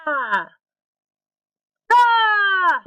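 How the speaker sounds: loud shout that clips the mic; clipping distorted mic. Shown as a demonstration. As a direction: yell hard enough to clip. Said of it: "I'll clip on purpose".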